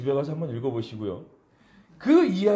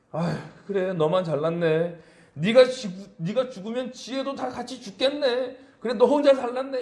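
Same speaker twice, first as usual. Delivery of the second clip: sarcastic; 4 semitones higher than usual. Retold or imitated. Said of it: "비꼬는 그런 이야기".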